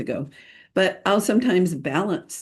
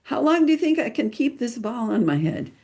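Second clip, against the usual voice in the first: put-on higher, teasing question to the kids; playful challenge; 6 semitones higher, faster than usual. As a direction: dare the children with a playful lilt. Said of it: "and I'll say".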